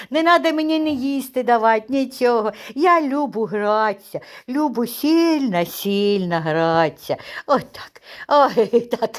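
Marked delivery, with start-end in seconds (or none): 0.1-7.2 voicing the dog. Owner voices the dog.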